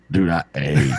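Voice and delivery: half-shouted, leaning hard on ate; shouted emphasis. Real, not acted. Man shouting about the huge meal, mock-shouted emphasis. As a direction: belt it out to stress how much he ate.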